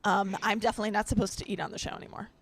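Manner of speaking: eating while talking; mouth full. Real, not acted. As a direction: talk through a mouthful. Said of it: "the speaker pulls out a massive Big Mac".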